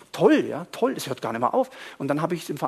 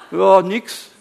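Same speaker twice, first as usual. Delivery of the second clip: acted defensive reply; 3 semitones higher, 10 dB louder than usual. Acting out the believer's defensive answer.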